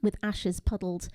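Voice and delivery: measured poem reading, phrase by phrase; poetry reading. Acted. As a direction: read the poem deliberately, pausing between images. Reads own poem aloud.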